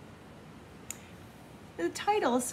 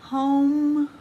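home called out louder and higher; 6 semitones higher, 8 dB louder than usual. Acted. Reader calling home out to the child. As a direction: announce home brightly, louder. Word read twice differently.

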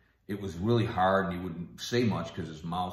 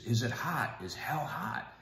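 higher-pitched imitation of anxious asking; terrified father; 5 semitones higher, 4 dB quieter than usual. Dying father questions his daughter about hell, imitated as terrified. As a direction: imitate a frightened man's halting question. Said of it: "he just looked terrified".

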